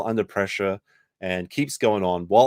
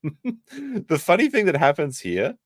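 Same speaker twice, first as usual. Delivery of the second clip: slow, high, laughing through it; 8 semitones higher, slower than usual. Real, not acted. Streamer laughing at the memory, restarting the line. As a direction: crack up as you repeat it.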